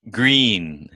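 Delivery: GREEN with the long ee held; stressed vowel. Shown as a demonstration. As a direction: lean on the ee in GREEN. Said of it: "we always stress the vowel".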